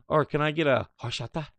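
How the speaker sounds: mock Spanish accent on horchata, said "or" instead of "hey"; lightly faked Spanish ordering accent; put-on Spanish accent. Californians ordering, mock Spanish accent. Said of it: "putting on the affectation".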